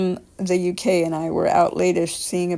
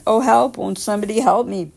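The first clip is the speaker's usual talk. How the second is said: German accent, a demanding mock cry for help; a raised German-accented plea, demanding more than scared; exaggerated German-accented cry; 3 semitones higher, 4 dB louder than usual. Old woman in the street calls to passing strangers, German-accented mock cry. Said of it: "cried out rather exaggeratedly in English, but with a thick German accent".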